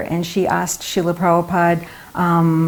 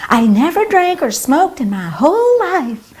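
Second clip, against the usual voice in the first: put-on much higher, breathless gushing girly voice; gushing English lady; 10 semitones higher than usual. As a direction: play the dolled-up admirer pleading sweetly. Quoting the same English lady.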